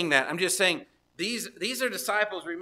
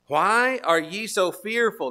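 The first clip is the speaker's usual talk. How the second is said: slow rebuke; 7 dB louder, slower than usual. Acted. Preacher voicing Jesus' rebuke.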